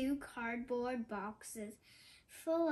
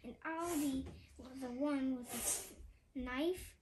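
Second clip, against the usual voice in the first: growled threat. Acted. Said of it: "and growled".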